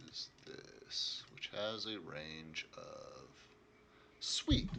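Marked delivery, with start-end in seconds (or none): 0.1-3.3 whispering. Real, not acted. GM checking stats, muttering.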